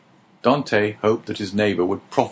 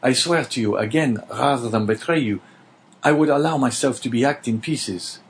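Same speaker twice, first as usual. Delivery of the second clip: lightly voiced vow, pitched higher; fervent young prisoner; 3 semitones higher than usual. Dante swears to his neighbour he will never betray him, fervent. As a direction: swear it with fervour.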